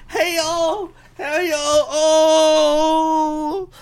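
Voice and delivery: high squeaky laugh through the words; cracking up at his own punchline. Real, not acted. Streamer laughing at his own joke, high and giggling.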